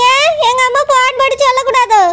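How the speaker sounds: insistent put-on tearful whine; fake crying. Wife defending her lie to husband, fake crying. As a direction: keep whining through pretend tears. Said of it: "நீ அழாத".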